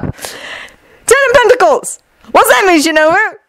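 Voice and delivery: high, showy, teasing shout; mischievous announcement. Acted. Jun waves a snatched card at Shinobu, teasing. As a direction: announce it like a game-show prize, then taunt.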